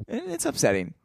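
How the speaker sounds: exaggerated fake hurt; mock upset. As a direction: play the wounded tease. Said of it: "says it twice, different ways".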